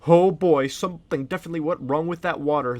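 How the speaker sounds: loud, pompous king voice; boastful jungle king. Acted. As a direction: play the vain king. Reads Jungle King's dialogue.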